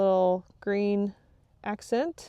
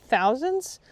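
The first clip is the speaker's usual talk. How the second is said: "thousands" punched higher and louder; "thousands" said big and amazed; stress on thousands; 5 semitones higher, 6 dB louder than usual. Real, not acted. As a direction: lean hard on "thousands" with a rise. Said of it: "and I do mean thousands".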